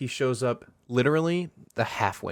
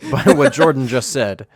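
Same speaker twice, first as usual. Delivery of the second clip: laughing while talking; 3 semitones higher, 10 dB louder than usual. Real, not acted. Laughing after Jordan's joke.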